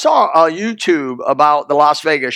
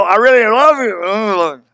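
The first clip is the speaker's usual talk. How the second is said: second day try; 3 semitones higher, slower than usual. Retold or imitated. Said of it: "The next day you go".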